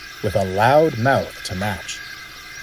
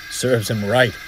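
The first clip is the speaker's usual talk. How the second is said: smirking. Acted. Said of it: "smirked the driver".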